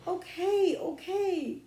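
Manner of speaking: put-on high, quick little-girl give-in; little girl yielding. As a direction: back down fast, cowed. Scared little sister gives in.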